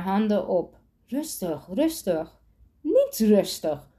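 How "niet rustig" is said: growled. A narrator's reading. Amber threatens Sander with a knife, slow growl. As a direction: snarl it slowly, leaning on niet. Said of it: "gromde Amber".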